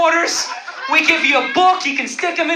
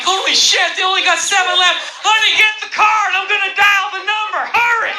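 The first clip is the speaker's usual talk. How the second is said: mock-frantic redneck buyer, higher pitch; hammed-up redneck in a panic; panicked redneck; 4 semitones higher than usual. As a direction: hurry your wife before they sell out. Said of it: "just to scare all the rednecks".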